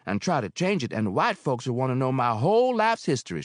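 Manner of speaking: Mary scorning the bank's questions; snorting. Acted. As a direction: scoff at the white folks. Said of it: "she snorted".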